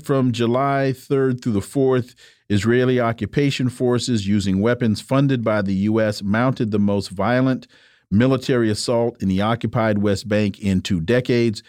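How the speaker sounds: even, formal radio read; measured news-style reading; reading an article aloud. Acted. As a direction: read the quoted passage out evenly on air. Reads from guest's article.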